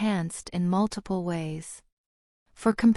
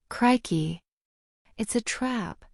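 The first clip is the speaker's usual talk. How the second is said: yell; 2 semitones higher, slower than usual. A narrator's reading. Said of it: "he yelled".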